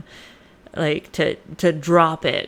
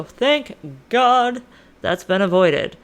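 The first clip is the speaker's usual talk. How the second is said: exaggerated relief; 3 semitones higher, 3 dB louder, slower than usual. Acting Oedipus relieved at avoided prophecy.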